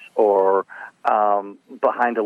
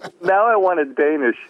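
put-on silly Danish accent; 9 semitones higher than usual. Answers in a joke accent.

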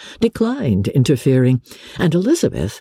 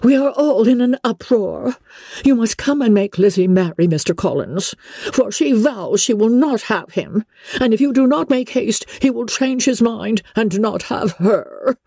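high-pitched, flustered urgent appeal; calling out in uproar; 9 semitones higher than usual. A narrator's reading. Wife bursting into the library to summon her husband, frantic. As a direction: sound the alarm in a high, agitated voice. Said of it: "called out as she entered the library".

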